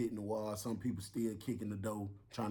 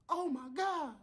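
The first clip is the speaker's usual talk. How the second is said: shocked gasp; 3 dB louder, slower than usual. Retold or imitated. Officer discovers body.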